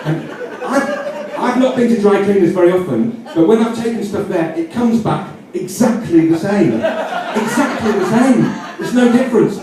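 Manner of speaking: can barely keep a straight face; laughing. Real, not acted. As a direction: giggle as you tell it. Giggling through own joke.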